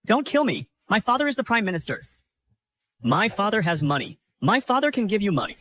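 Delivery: high-pitched begging for life; scared, bargaining plea; frightened pleading. Acted. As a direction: plead desperately with your attacker. Defeated villain begs for his life.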